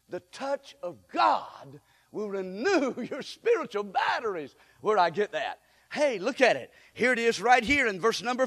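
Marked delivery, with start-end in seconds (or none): 0.1-4.6 louder repeat. Real, not acted.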